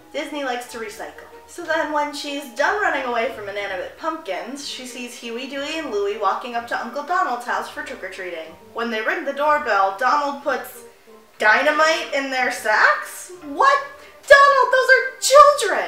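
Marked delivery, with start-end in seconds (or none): 11.3-13.3 rising, questioning intonation. Recapping an old Disney cartoon, questioning.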